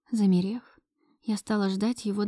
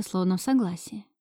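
ordinary delivery

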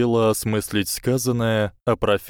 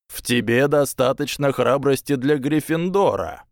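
a calm, higher Sorting Hat voice; 6 semitones higher than usual. A narrator's reading. Sorting Hat's calm voice in her memory, gentle. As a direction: speak evenly and gently, a touch higher. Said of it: "произнёс спокойный голос".

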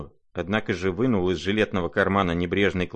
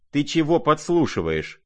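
much higher, sharp accusing cry; sharp shout; 8 semitones higher, 3 dB louder than usual. Acted. Lizaveta catching the prince listening in, shouting sharply. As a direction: catch him eavesdropping. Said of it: "крикнула она".

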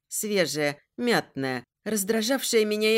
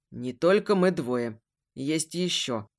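cut off mid word; 5 semitones lower, slower than usual. Acted. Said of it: "оборвал на полуслове".

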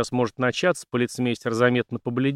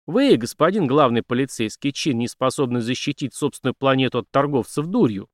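angry accusation; 2 semitones higher than usual. Acted. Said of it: "Неожиданно разозлился Дик".

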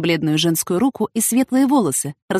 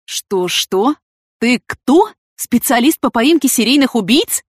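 questions climbing in pitch and volume; dumbfounded; 6 semitones higher, 4 dB louder, slower than usual. A narrator's reading. Vitaly reacting to Matthew's revelation, stunned. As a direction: ask in rising disbelief. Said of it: "оторопел Виталий Николаевич".

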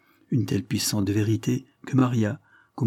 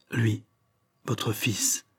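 stammering; 4 dB quieter, much slower than usual. Acted. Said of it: "la force de bégayer".

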